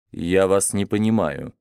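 тихо и холодно, отстранённо; отрезать холодно, без эмоций. Acted. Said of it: "холодно произнёс Монтанелли". (холодно и отстранённо)

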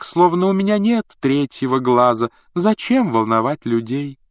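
eerie ethereal prophetess voice; otherworldly mystic voice. Acted. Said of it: "в голосе Трелони вдруг пропала потусторонность".

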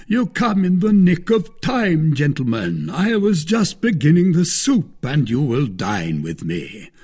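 high, loud, expansive host; hearty Porthos. A narrator's reading. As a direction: welcome them grandly, pitched high. Voices Porthos greeting his guests.

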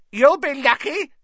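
high, loud gleeful cackle; cackling poltergeist. A narrator's reading. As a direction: cackle it with delight. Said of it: "said a cackling voice".

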